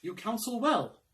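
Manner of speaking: answering conscience. Acted. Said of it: "Conscience," say I".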